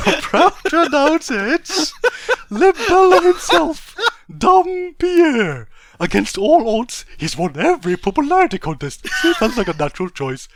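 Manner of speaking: bright, loud stage announcer voice; Okubo. Acted. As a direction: hype up the crowd like a host. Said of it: "So I'll be the voice of Okubo".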